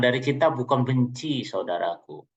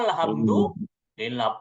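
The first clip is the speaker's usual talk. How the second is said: grateful sigh; 3 semitones lower, much slower than usual. Acted. Grateful husband voiced.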